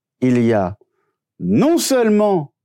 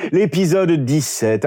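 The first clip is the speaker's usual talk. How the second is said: slow, with a sinister little laugh; evil chuckle; slower than usual. Acted. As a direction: savour "L'épisode dix-sept" with a villain's chuckle. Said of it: "ton petit rire diabolique".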